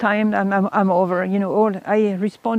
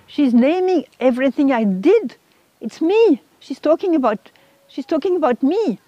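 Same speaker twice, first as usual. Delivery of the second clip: higher-pitched retold alarm, mildly acted; shocked realisation; 4 semitones higher than usual. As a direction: realise with a jolt that you are exposed.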